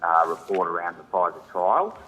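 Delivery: distant, muffled phone line; speaking too far from the phone; phone held away. Real, not acted. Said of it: "I'm having trouble hearing you".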